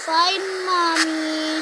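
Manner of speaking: loud, very drawn-out giving in; slow, mock-grudging reply; pretend grudging child. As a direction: give in like a reluctant kid, stretching each word.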